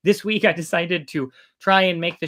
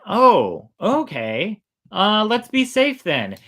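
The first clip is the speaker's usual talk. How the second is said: startled villager; 7 semitones higher, 6 dB louder, slower than usual. Acted.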